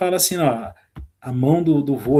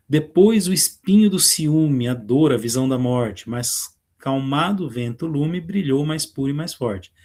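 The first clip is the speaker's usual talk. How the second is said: slow, measured recital of verse; poem reading. Acted. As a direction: read the lines like a poem. Teacher reads the poem aloud. (leitura de poema, pausada)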